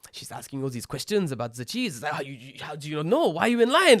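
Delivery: imitating a fed-up cheese shopper; mock rant. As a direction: ham up the annoyed friend ranting about the customer. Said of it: "He's like".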